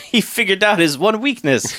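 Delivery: mock German scientist accent; bad German accent, played for laughs; terrible German accent. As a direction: ham up a cartoon German scientist. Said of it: "That's a terrible German accent".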